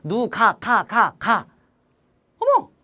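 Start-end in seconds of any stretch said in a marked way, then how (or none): 2.4-2.7 mock surprised gasp.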